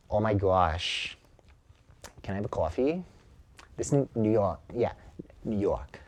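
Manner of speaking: a hint of a New York coffee order; New York accent. Shown as a demonstration. Showing a New York accent while ordering coffee. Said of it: "let's see the New York accent".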